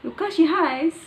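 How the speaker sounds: high, loud Marathi village lilt; punchy village Marathi with pitch pushed up; Marathi village accent. Shown as a demonstration. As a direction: call it out in a rural Marathi accent. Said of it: "like this".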